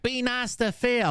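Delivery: high, drawn-out mimicking plea; mock follower. Streamer imitating fans defending Phil, high mocking plea. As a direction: put on a high, mocking fan voice.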